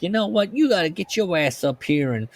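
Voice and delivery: a touch of an annoyed employee's ultimatum; lightly voiced Lenny. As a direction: demand it, half-hearted. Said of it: "Lenny calls Joe and is like".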